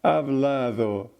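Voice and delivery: "Hablado" slowly, the b and d softened; lazy, slurred Spanish "Hablado"; sloppy consonants. Shown as a demonstration. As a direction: let the consonants of "Hablado" melt into v and th. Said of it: "doesn't clearly pronounce its consonants".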